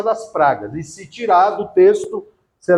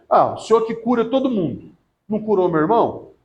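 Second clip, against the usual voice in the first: ironic. Retold or imitated. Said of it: "Foi irônica".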